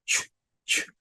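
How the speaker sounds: Brazilian "want-chu" with a strong tch; heavy Brazilian accent. Retold or imitated. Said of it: "O sotaque puxado".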